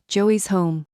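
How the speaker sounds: strained rasp, rough throat; raspy voice. Acted. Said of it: "dropped my voice back to the rasp".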